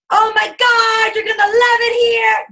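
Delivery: mock over-the-top excitement; gushing welcome. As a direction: squeal the welcome once paid. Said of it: "Once they give you the money".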